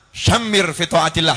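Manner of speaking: Syamir said the Arabic way, sh sound; Arabic pronunciation. Shown as a demonstration. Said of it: "Ya, aslinya syamar". (pelafalan Arab Syamir)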